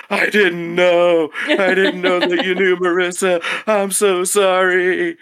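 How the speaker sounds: high, loud, drawn-out wailing apology; mock groveling. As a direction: imitate a panicked intern begging forgiveness. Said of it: "started, like, groveling".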